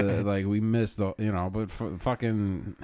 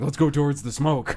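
put-on drunk self; 6 semitones higher, 6 dB louder than usual. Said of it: "Drunk Sean is like".

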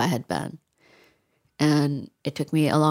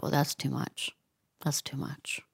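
much softer, fading to a near-whisper; hushed painful recollection; 9 dB quieter than usual. Retold or imitated. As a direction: let the recalled thought sink almost to a whisper. Recalls withholding friend's suicide from book.

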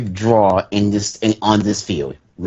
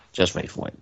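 breathy whisper, teasing the surprise; 10 dB quieter, faster than usual. Real, not acted. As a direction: drop to a secret whisper. Teasing the others to hold on.

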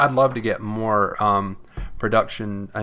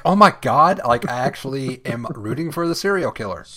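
mock surprise; 3 semitones higher, 3 dB louder than usual. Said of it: "you're just like".

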